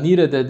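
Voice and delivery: "Nire'de" with an open æ in the last syllable; Turkmen word. Shown as a demonstration. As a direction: say "Nire'de" with i in place of e, nire-dæ. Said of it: "yani nerede?".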